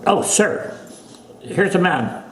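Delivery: high English accent, old man retold; imitating a little old English gentleman. Grandson hearing of a fight, English accent. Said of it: "going on like this in an English accent".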